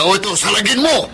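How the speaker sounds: villain jeering while stabbing; taunting attack. Acted. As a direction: dare him as you strike.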